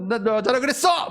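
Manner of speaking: hammed-up indignant retort; mock angry outburst. Preacher imitating an angry comeback to a silly insult, mock indignant. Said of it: "제가 막 화내겠어요?".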